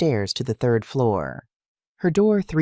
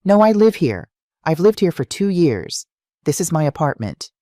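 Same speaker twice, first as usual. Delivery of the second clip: louder, higher insistence; rising voice; 6 semitones higher, 4 dB louder than usual. A narrator's reading. Woman protesting to the stranger in her doorway, rising insistence. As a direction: insist she lives here, voice climbing. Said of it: "her voice rising".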